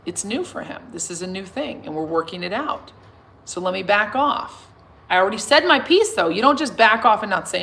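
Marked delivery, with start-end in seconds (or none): 0.1-4.7 compassionate voice. Retold or imitated. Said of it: "Love and compassion says".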